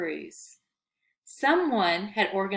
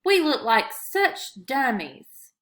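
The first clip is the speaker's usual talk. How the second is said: slow, louder groan of embarrassment; slow moaning; 4 semitones higher, 5 dB louder, slower than usual. A narrator's reading. Manny complains to Paul they look foolish, slow whine. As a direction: whine it out slowly. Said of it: "Manny moaned".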